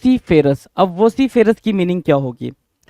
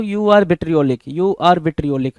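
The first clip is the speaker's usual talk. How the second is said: slow demo; much slower than usual. Shown as a demonstration. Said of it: "बंदे को बोलना start करो".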